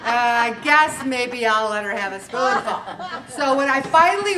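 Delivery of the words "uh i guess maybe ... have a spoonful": laughing. Pretend. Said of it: "he's thinking".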